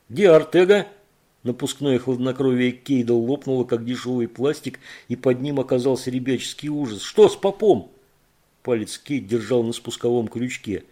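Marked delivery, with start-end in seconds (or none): 0.1-0.9 high, loud frightened demand; panicked shout. Acted. Frightened man demands answer. 7.0-7.9 high, loud scared cry; the fear breaks through the question; loud, frightened demand; terrified shout. Acted. His cool cracks into terror.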